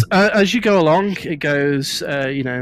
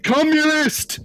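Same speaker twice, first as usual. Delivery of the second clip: shouting interrogator robot; 10 semitones higher than usual. Acted. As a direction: yell the accusation like a crazed warbot. Warbot screams at a suspect.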